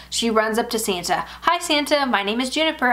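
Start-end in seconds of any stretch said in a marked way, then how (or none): 1.4-2.9 put-on high, eager child's greeting; lightly voiced excited little girl. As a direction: bounce up to Santa like a bold six-year-old. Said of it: "big personality, megawatt smile".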